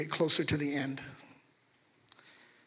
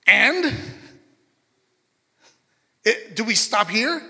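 demanding master; 3 semitones higher, 4 dB louder than usual. Acted. Master pressing the servant.

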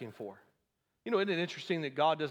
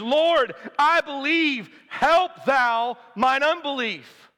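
loud, high, drawn-out plea; crying out; 7 semitones higher, 8 dB louder, much slower than usual. Acted. Desperate father cries out to Jesus for help, crying out. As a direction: cry out to the Lord with full force. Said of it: "And he cries out".

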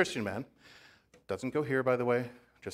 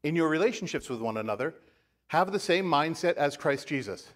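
raised, deliberate Bible reading; scripture reading; 2 semitones higher than usual. Acted. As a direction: proclaim the verse to the congregation. Reads scripture to congregation.

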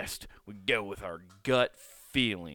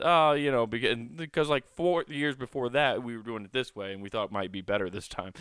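louder, breezy mock manager excuse; 2 semitones higher, 3 dB louder than usual. Mocking managers explaining the flip-flop, louder and breezy. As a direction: make the excuse sound chipper.

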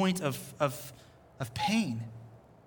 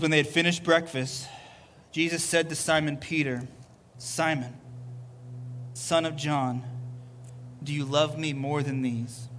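scripture reading. Acted. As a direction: read the passage unhurried, letting each line land. Reads John 21 over music.

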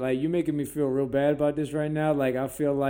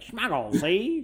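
put-on New York accent; 6 semitones higher, slower than usual. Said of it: "talks with a New York accent".

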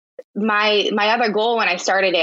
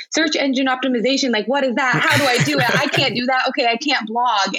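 higher-pitched, flustered retelling of panic; mock overwhelm; 5 semitones higher than usual. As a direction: imitate yourself overwhelmed by jargon. Acting out past overwhelm at SEO.

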